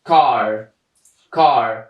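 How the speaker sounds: "کار" begun with a K sound, drawn out; slow teacher demo of "کار" with initial K; hard C as K. Shown as a demonstration. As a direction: model "کار" slowly with a hard C.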